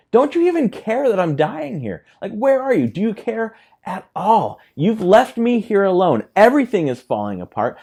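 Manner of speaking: high, loud, desperate cry to the teacher; frantic shout. Acted. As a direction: yell it like the boat is sinking under you.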